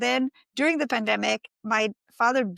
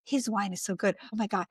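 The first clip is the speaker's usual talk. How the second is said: much softer, hushed awe; awed inner thought; 6 dB quieter than usual. Retold or imitated. Tasting a rival's wine, hushed amazed thought. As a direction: breathe it out, impressed in your head. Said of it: "And you're thinking like".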